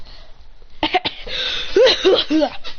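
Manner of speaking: breathy, high bursts of laughter; acted laughing fit. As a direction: burst into wheezy cackles. Character's reaction to the protest.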